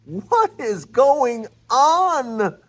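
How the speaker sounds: high, stretched-out whoas of real excitement; slow, wide-eyed what is going on; overexcited. Real, not acted. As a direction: blurt it out, genuinely thrilled. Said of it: "I'm a little overexcited".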